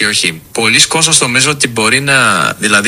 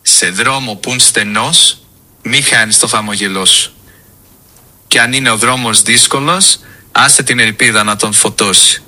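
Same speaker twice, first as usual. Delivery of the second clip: reciting a mantinada. Shown as a demonstration. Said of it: "Θέλεις να μας πεις μια μαντινάδα".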